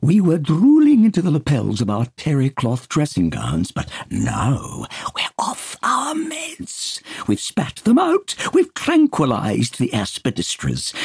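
high, loud manic patient; sly high mischief, slowing on now we're off; giddy Peter. Acted. Peter boasting to Dunbar, high manic voice.

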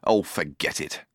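low, soft, worn-out sigh; exhausted. Acted. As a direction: give up, drained. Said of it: "suddenly exhausted".

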